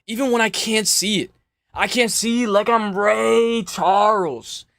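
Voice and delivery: solemn parody of a withdrawal announcement; mock somber statement. Streamer parodying the fighter's pull-out statement, mock solemn. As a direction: read it like a fake heartfelt press statement.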